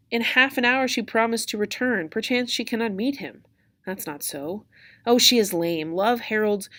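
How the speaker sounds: lightly acted Juliet, complaining at the wait; verse read aloud in mild impatience; impatient Juliet. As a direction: read it as a fretful girl kept waiting. Reads Juliet waiting, complaining of nurse.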